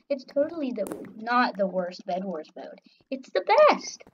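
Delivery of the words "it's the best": high-pitched fake rave; sarcastic praise. Player pretending to adore the mode, sarcastic praise. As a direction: insist on it with put-on cheer. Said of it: "I was being sarcastic".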